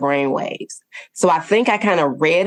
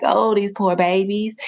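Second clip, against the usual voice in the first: higher-pitched retold wail of pity; mock bawling; 5 semitones higher than usual. Mother driving, moved by a commercial, mock bawling. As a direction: lightly imitate tearful pity. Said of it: "I'm bawling like".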